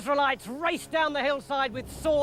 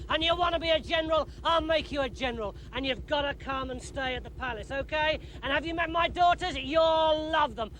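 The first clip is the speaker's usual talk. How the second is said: gushing king; 4 semitones higher than usual. Acted. Saul gushing over David.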